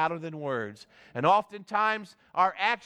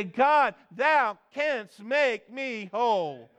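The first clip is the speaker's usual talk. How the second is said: crying out; slower than usual. Acted. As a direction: call on God, then draw out each word. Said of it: "you need to cry out today".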